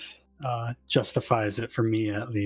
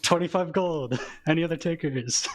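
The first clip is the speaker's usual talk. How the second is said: auctioneer; 5 semitones higher than usual. Pretend. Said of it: "auction voice".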